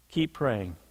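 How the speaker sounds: low, soft, drawn-out refrain. Real, not acted. Preacher closing each case with a soft low refrain. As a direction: drop the voice low and quiet on the refrain.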